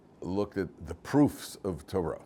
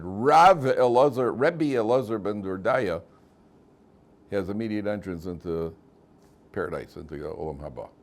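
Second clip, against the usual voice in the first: heavenly voice; 3 dB louder than usual. Acted. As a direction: announce it like a voice from the sky. Heavenly voice announcing.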